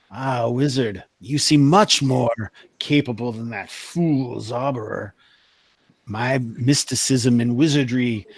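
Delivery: a hint of a grand, seductive sorceress; lightly voiced tempting sorceress. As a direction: tempt the wizard with promises of power.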